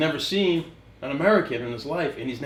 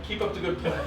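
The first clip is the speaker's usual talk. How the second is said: stifling a laugh through it; fake-cheerful pep talk while giggling; laughing mock encouragement; 2 semitones higher, 4 dB quieter than usual. Teammate in the huddle, laughing encouragement.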